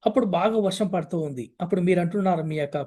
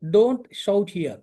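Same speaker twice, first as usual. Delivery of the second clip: slow teaching read; much slower than usual. Shown as a demonstration. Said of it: "చిన్నగా మాట్లాడు (phrase being taught)".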